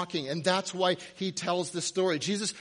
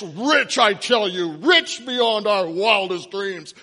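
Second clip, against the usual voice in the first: mad scientist; 7 dB louder than usual. Pretend. Mocking self-deluded rich fantasy.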